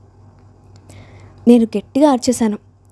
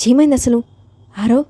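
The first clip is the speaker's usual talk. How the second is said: alarmed shout; 2 semitones higher than usual. Acted. Jai rushes in asking his brother, mild alarmed shout. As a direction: burst in asking, voice raised. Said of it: "గట్టిగా అరిచాడు".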